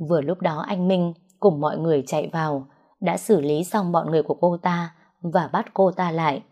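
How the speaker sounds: usual speaking voice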